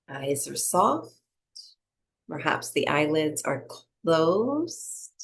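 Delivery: unhurried meditation-teacher delivery; guided breathing meditation. Acted. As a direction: lead them gently through each breath, leaving space.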